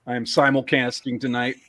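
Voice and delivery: simulcasting with a slight, accidental country twang; slipped into country. Real, not acted. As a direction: let a little country accent slip into simulcasting. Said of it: "You went a little country there".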